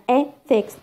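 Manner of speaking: "ethics" with E stressed; stress on second-last syllable. Shown as a demonstration. Teacher giving an example word, stress on E in "ethics". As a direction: lean on the first syllable of "ethics". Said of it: "How stress".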